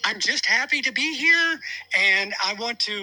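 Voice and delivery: a high, eager winner's voice. Pretend. Host's golfer persona gives a happy post-win interview, high voice. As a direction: pitch it up, chirpy and pleased. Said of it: "you have a high voice like that".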